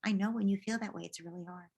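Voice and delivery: soft empathy, trailing to very quiet; understanding parent. Pretend. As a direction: sympathise gently with a child. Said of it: "You can say".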